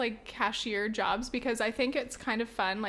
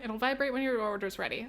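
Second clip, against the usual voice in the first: mock cashier voice. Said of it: "giving it to people and being like".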